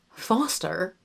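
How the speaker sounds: quiet try at Foster in RP; attempted RP accent. Shown as a demonstration. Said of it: "I can't say his name".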